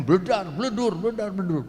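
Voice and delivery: high-pitched mimicry of banging machinery; imitated MRI clanging. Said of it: "Suaranya keras sekali".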